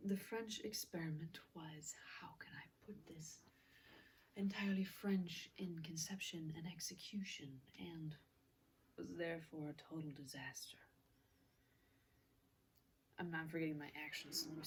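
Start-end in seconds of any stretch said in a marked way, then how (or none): 0.1-10.8 softly voiced mad scientist, measured delivery; quiet, half-whispered dramatic monologue; chemist character monologue. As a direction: deliver the verdict in a hushed voice.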